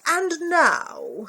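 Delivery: high, loud proclamation; grand announcement. Acted. Max proclaiming to the wild things, high and loud. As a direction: announce it like a king.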